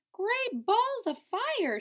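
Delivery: high, slow, loud goose voice; a startled goose exclaiming with wide-open vowels; high squawking goose cry. Acted. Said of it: "she cried".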